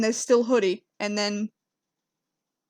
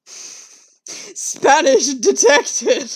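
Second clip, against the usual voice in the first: slow, higher, louder mock robot voice; mock robot announcer; 5 semitones higher, 6 dB louder, much slower than usual. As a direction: announce it like a machine.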